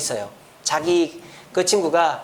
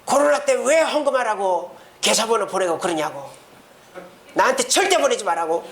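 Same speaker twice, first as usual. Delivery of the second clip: mock drunken cursing; 4 semitones higher than usual. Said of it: "쌍욕을 하면서".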